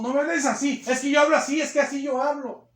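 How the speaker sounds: high, loud insisting retort; rude defensive reply. Retold or imitated. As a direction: defend your rudeness. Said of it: "y le grita a la gente". (respuesta grosera alzando la voz)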